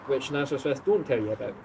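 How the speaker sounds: put-on hammy Welsh accent; a clumsy go at a Welsh accent; dodgy Welsh accent. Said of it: "That's a terrible Welsh accent".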